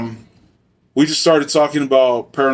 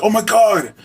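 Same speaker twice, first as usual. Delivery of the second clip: mock shocked oh my God, much higher; a sudden mock gasp of alarm; retold startled cry; 9 semitones higher than usual. Wife swerving the car, mock startled high cry.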